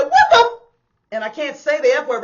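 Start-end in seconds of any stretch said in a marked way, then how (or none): 0.0-0.6 much higher, louder indignant yell; outraged shout. Retold or imitated. Friend yelling at the man who grabbed her. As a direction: cut off the curse mid-yell. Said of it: "And then she said".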